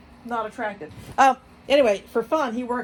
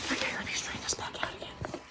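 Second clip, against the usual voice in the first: whispered aside to herself; whispering; 13 dB quieter, faster than usual. Real, not acted. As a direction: murmur it under your breath. Whispered while tidying.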